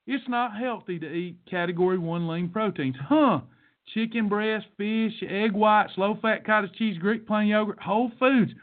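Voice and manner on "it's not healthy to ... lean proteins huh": mock surprise at a doubter; oh really, pointed disbelief; incredulous sarcasm. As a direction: sarcastically throw the objection back. Mocking a doubter with rhetorical questions.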